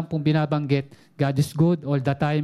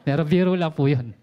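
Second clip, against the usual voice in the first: chuckling through the words; light real laugh while saying it. Real, not acted. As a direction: laugh off the joke you just made. Joke about wife's plea.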